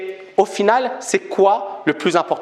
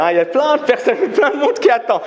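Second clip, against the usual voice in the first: higher, laughing tease; joking with a laugh; 7 semitones higher than usual. Real, not acted. A speaker teasing the disappointed audience, laughing. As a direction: tease them through a laugh. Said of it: "Non, je rigole".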